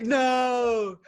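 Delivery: high, loud drawn-out protest; mock group yell. Co-host imitating the others yelling at Tyson, loud mock protest. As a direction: shout it like a crowd yelling back. Acts out everyone yelling back.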